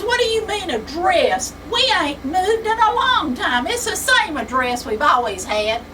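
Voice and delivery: indignant country son, high and loud; Sonny's voice. Acted.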